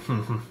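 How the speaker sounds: soft hum through closed lips; closed-mouth hum. Retold or imitated. Al answering young Jerry with a soft closed-mouth hum. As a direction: hum it with the mouth shut, softly. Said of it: "he always kept his mouth closed, so he's like".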